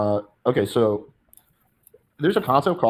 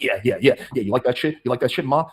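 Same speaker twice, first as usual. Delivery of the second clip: over-gamey seducer. Retold or imitated. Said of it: "another concept called being, like, over gamey".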